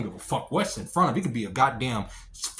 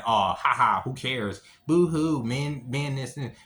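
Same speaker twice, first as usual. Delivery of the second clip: mocking dismissive women; slower than usual. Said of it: "get on here saying".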